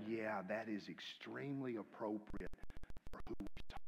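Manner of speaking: mock approving. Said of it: "They'll go".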